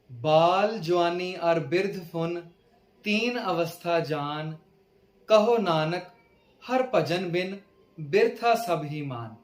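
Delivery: slow, measured verse reading; scripture recitation. Acted. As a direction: recite each line slowly, stretching the words.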